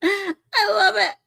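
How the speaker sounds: laughing hard through the words; high, helpless laughter after a joke; cracking up. Real, not acted. Cracks up after played rant.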